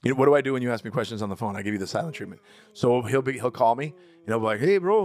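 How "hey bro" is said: high, loud bro greeting; lightly voiced gangster friend. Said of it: "really bad Raul impression".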